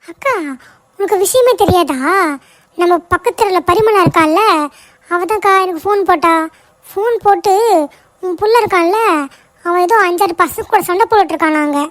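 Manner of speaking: flustered, urgent news-breaking; agitated. Acted. Neighbour reports the woman's son is fighting, agitated. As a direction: blurt out worrying news after running over. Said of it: "ஏன் இப்படி ஒரு மாதிரி பதட்டமா வர".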